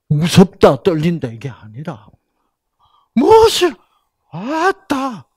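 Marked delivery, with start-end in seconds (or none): 3.1-5.3 put-on high, loud Gyeongsang-accented delight; Gyeongsang woman's exclaim. Gyeongsang woman admiring a man, high and loud in Gyeongsang accent. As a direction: gush like a Gyeongsang lady. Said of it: "경상도 여자들 뭐라 그러게?".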